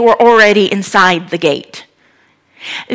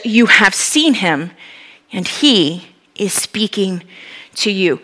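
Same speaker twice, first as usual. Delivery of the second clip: gentle reveal; 3 semitones lower, 5 dB quieter, slower than usual. Retold or imitated. Jesus reveals himself gently.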